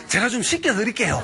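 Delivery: amused shepherd offering to scrub God; laughing offer. Retold or imitated. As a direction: chuckle through 씻겨드릴게요 with a lift. Shepherd's prayer, repeated.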